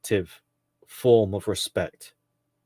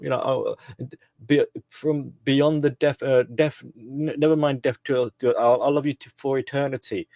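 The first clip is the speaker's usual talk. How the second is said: mock swooning romantic, lightly voiced; over the top lover; 3 semitones higher than usual. Mocking a smitten young man, hammed-up swooning lover. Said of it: "You know, over the top".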